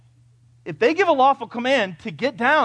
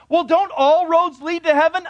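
skeptical questioner; 9 semitones higher, 6 dB louder than usual. Retold or imitated. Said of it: "you have a lot of questions".

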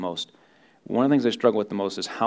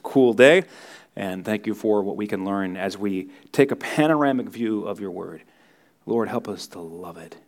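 closing prayer; 3 semitones lower than usual. Real, not acted. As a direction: pray it gently over the room.

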